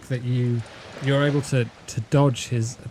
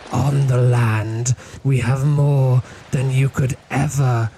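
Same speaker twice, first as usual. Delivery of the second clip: madness in her voice; 3 dB louder than usual. Acted. Cult mother rejecting her son for Dagon's child, louder manic gloating. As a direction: lord the new child over him, unhinged. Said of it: "you can hear madness in her voice".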